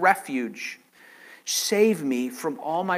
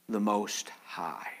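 hushed whisper of awe; whispered reverence; 9 semitones lower, 11 dB quieter, slower than usual. Acted. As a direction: breathe it out in a whisper. Whispered end of psalm reading.

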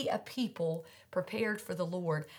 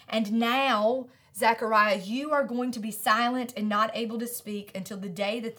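stern sentence; 4 dB louder than usual. Acted. Angel pronounces silence.

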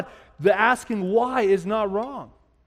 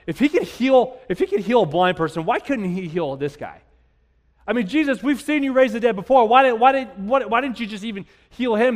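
raised, challenging questions; critical questioning; 4 semitones higher, 4 dB louder than usual. Acted. Mourners at the tomb questioning Jesus, critical and pressing. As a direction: demand an explanation like an upset mourner. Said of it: "These people, they're being critical".

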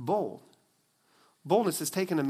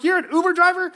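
much higher, louder stunned question; can't believe what mom just said; shocked disbelief; 13 semitones higher, 8 dB louder than usual. Retold or imitated. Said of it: "I'm like".

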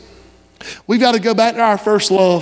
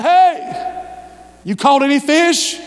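hollering out; 3 semitones higher, slower than usual. Retold or imitated. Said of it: "he hollers out".

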